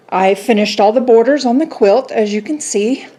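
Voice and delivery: breathless after kneeling on floor; winded, catching breath between words. Real, not acted. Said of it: "I'm out of breath from getting down on the floor".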